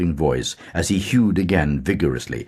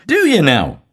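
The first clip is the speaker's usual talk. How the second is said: 1 same mock puzzled tone; 12 semitones higher, 7 dB louder than usual. A narrator's reading. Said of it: "in the same tone".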